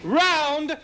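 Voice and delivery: slow, drawn-out ringside call; announcer. Acted. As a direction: call the round like a referee. Announcing the round.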